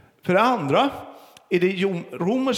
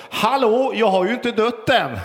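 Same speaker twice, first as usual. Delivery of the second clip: put-on high, loud kid's protest; shouted back; 6 semitones higher, 4 dB louder than usual. Son shouting back to mother from his game, high loud protest. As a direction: yell back indignantly. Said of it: "sonen ropar tillbaka".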